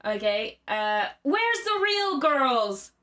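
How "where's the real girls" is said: high, drawn-out shout; Nicolas Cage shouting. Acted. Host acts Cage shouting at the diners. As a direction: call it out high across a room. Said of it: "he shouted".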